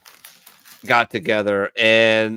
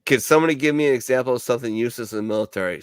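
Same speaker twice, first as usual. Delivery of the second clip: quick sergeant quote; much faster than usual. Retold or imitated. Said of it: "Staff sergeant".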